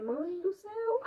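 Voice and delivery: agudo e arrastado, apelo à mãe; desespero encenado. Retold or imitated. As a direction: imite um apelo desesperado, esticando as palavras. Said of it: "eu fiquei desesperada, liguei pra minha mãe". (lamento desesperado de mentirinha)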